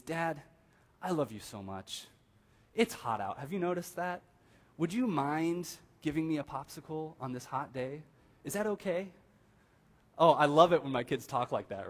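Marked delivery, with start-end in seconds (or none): 0.0-9.1 put-on sweet-talking child. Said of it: "The first way is".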